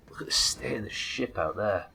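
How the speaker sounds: hushed wondering whisper. Real, not acted. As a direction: whisper it in awe.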